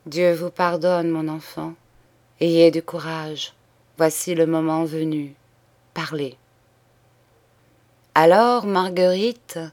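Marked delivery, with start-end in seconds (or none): 0.1-6.4 a priest's gentle, reassuring murmur; gentle soft voice. Acted. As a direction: quietly comfort the dying girl. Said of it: "et d'une voix douce". (voix douce et apaisante de prêtre)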